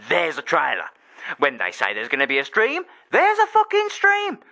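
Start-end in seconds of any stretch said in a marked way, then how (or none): 3.1-4.4 slow, high, hammered; punched emphasis. Real, not acted. Ranting that NetherRealm delivers, hammered emphatic. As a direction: spit out each word.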